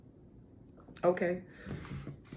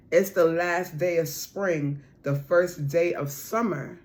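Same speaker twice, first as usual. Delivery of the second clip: slow emphasis; slower than usual. Shown as a demonstration. Reader repeating the timing message slowly and firmly. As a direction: lean into each word slowly.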